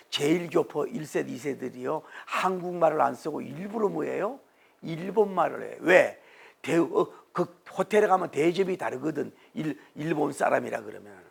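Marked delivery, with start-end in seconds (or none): none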